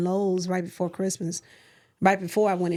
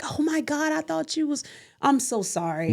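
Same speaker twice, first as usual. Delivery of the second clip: flustered apology; 8 semitones higher than usual. Retold or imitated. Retelling embarrassed mistake to stranger.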